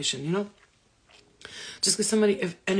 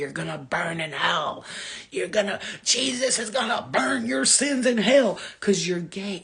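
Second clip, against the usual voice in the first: condemning preacher. Retold or imitated. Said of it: "everybody around you is telling you".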